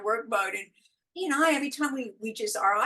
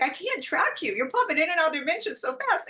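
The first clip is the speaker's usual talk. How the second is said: higher-pitched imitation of a baffled client; mock exasperation; 7 semitones higher than usual. Client telling the healer they can't keep up, mock exasperation. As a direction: quote them as overwhelmed, pitched up.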